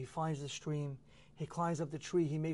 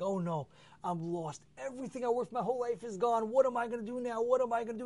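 higher wailing lament, a touch of sobbing; crying out in despair; 6 semitones higher than usual. Acted. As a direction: cry out like a man who lost everything. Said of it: "he starts crying, he starts screaming".

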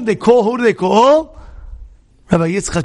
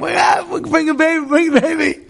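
mock excited cheer; 8 semitones higher than usual. New parents cheering over coming baby.

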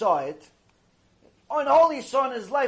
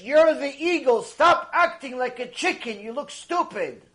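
raised, forceful quoted rebuke, easing at the end; voicing a divine rebuke; 4 semitones higher, 4 dB louder than usual. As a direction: scold them as if relaying God's message. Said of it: "Hashem is telling us".

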